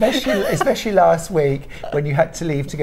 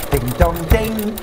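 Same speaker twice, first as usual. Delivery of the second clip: sung chime; 3 semitones higher, slower than usual. Retold or imitated. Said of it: "with a xylophone".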